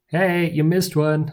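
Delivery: slow, half-yawned words; stifling a yawn. Acted. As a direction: say it through a yawn. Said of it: "stifling a yawn".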